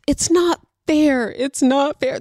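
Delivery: put-on half-hearted try at a child's complaint; imitated child protest. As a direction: pitch it up like a protesting kid. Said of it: "That's not how she sounds".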